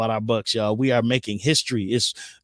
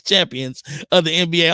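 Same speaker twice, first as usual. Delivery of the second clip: mildly choked up, higher pitched; proud announcement with a slight catch; 4 semitones higher than usual. Real, not acted. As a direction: catch on the word champions, a real lump in the throat. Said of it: "I'm getting choked up".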